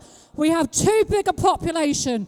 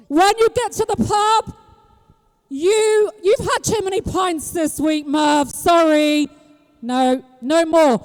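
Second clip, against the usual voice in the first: mock scolding announcement. Machine refuses pub drinker Merv.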